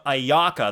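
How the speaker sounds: ayaka with an open AH in the middle; eye-AH-ka, leaning on the middle of ayaka; wrong vowel demo. Shown as a demonstration. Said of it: "there's no ah".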